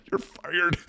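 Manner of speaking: a high, mock-stern you're fired; mock firing. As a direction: play the boss firing her as a joke. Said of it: "I wanted to be like".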